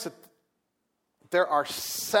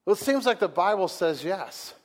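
ordinary talk

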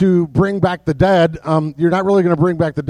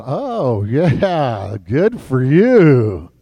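sarcastic brush-off; 5 semitones lower, much slower than usual. Retold or imitated. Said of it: "looking at you going".

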